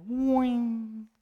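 high whooshing car noise; imitated whoosh. Imitating the car rushing past. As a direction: mimic the car speeding off. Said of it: "era como".

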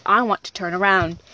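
drain all feeling from it; a creepy girl saying it with no emotion; emotionless. Acted. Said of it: "in the most emotionless voice I could ever hear".

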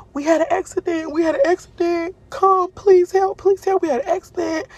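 high, pleading panic with a touch of sobbing; panicked crying mom. Retold or imitated. Mom on the phone to her daughter after the crash, panicked and pleading. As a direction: plead for help in a frightened rush, pitched high. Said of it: "she crying".

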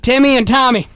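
put-on high drawling good ol' boy; redneck character voice. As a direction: spin a yarn as a redneck. Improvised redneck character bit.

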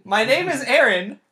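high, loud disbelieving outburst; incredulous retort. Retold or imitated. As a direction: act out exasperated disbelief. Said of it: "I was just like".

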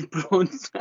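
tentative South African echo; half-hearted South African accent. Acted. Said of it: "You will do a South African accent".

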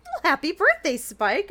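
sincere, lightly acted birthday greeting; genuine well-wishing. Teacher wishing Spike happy birthday, genuine. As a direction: wish happy birthday and mean it. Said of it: "Cheerilee says so genuinely".

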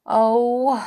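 mildly sad, drawn-out oh. A narrator's reading. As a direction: let the oh sigh with disappointment. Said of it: "said Moonface sadly".

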